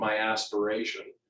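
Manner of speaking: plain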